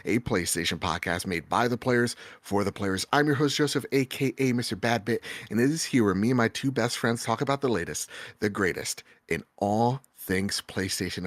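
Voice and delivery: upbeat host announcer read; announcer intro. Acted. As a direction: hype up the show opening.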